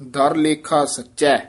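ਦਰ ਲੇਖਾ ਸੱਚਾ, ending with a rest after ਸੱਚਾ; pause after sacha. Shown as a demonstration. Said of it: "ਇੱਥੇ ਵਿਸਰਾਮ ਹੈ". (ਸੱਚਾ ਤੇ ਵਿਸਰਾਮ)

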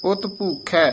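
ਉਤ ਭੂਖੈ then a clear pause; pause after ਭੂਖੈ. Shown as a demonstration. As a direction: stop briefly after ਭੂਖੈ before going on. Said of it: "ਇੱਥੇ ਵਿਸਰਾਮ ਹੈ".

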